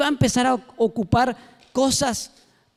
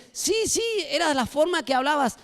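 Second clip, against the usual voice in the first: accusing woman; 7 semitones higher than usual. Acted. Woman accusing Peter, high voice.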